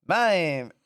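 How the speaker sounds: creature call with a rising then falling swoop; Mister Mime's cry. Acted. Mister Mime answering Ash, creature cry. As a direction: say the name as a cartoon creature's cry. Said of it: "and Mime's like".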